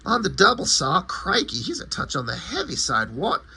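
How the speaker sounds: mock-British comic-book monkey; hammed-up British exclaiming; proper British accent. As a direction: put on a fussy British accent. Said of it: "like, proper British accent".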